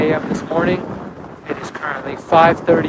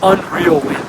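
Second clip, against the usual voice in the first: shouting over wind; 3 semitones higher, 4 dB louder than usual. Real, not acted. It is so windy up here.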